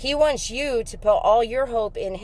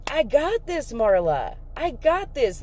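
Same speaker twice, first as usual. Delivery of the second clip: God speaking; 3 semitones higher than usual. Retold or imitated. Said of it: "That's what God's saying to me".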